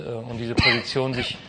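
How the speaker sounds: chuckling through the words; amused, half-laughing. Real, not acted. Host laughs at choking co-host.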